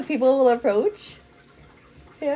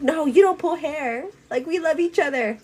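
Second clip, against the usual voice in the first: higher, playful mom correction; gentle mock scolding; 4 semitones higher than usual. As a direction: chide imagined little ones lightly. Voices mother correcting fighting babies.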